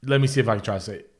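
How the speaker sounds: talking while chewing gum; words around a piece of gum. Real, not acted. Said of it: "I'm chewing gum while talking".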